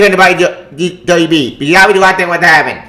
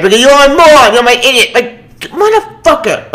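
angry insult; 7 semitones higher, 4 dB louder than usual. Real, not acted.

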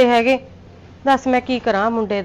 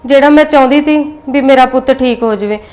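louder, pleading self-blame; loud anguished confession; 6 dB louder than usual. Acted. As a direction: cry out that the fault is hers. Mother pleads guilt in quarrel.

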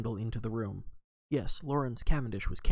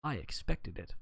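grave; 6 dB quieter than usual. A narrator's reading. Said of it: "he said gravely".

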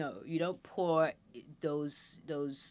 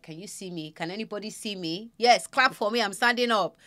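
put-on proud baby voice; 5 semitones higher, 8 dB louder than usual. Voicing baby standing proudly.

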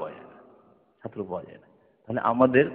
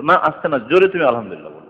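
put-on correcting child; 3 dB louder than usual. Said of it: "আস্তে করে আলহামদুলিল্লাহ বললো".

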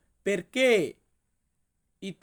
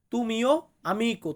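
tu mio amico drawn out very slowly; slow teaching model; much slower than usual. Shown as a demonstration. Teacher modelling tu mio amico slowly for viewers. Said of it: "Italian ভাষাতে বলতে হবে".

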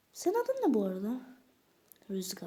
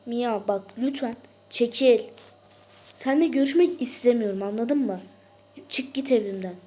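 angry yelling; 2 semitones higher, 8 dB louder than usual. Pretend. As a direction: drive her away furiously. Doll yells through door at Mia.

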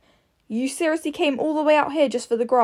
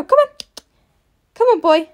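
loud, higher call to the horse; urging call; 10 semitones higher, 7 dB louder than usual. Real, not acted. Rider urging her horse on, loud and high. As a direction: drive him on over the jump.

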